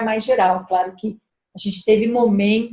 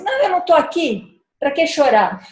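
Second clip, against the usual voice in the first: higher, brushing off the tears; mock a parent waving away crying; mother brushing off her daughter's tears, higher and dismissive; 6 semitones higher than usual. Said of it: "Ao invés de falar assim".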